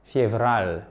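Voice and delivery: "Fievral" with a lightly rolled R. Shown as a demonstration. Teacher showing learners the Russian month, rolled R. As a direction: roll the R a little in "Fievral". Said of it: "Vous roulez un petit peu le R".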